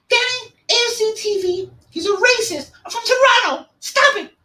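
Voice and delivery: very high squeaky mock Canadian accent. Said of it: "Laughing at the Canadian accent".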